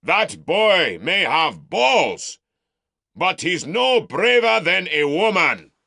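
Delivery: mock the Southerner for the mob; scornful shout. Uncle mocking nephew before crowd.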